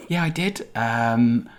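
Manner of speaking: put-on high little hamster with a wobbly accent; tiny talking hamster. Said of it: "what's that accent?".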